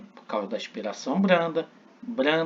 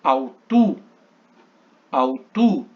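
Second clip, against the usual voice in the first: "alto" said loud, the stress on the first vowel; stressed demo; 6 dB louder, slower than usual. Shown as a demonstration. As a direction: call out "alto" loudly twice. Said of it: "Então".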